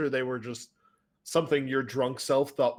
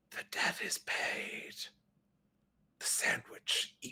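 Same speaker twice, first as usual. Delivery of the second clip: faint, brief, hushed whisper. Narrating to the players, a voice speaks from the air: brief whisper. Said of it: "you hear a brief whisper in the air".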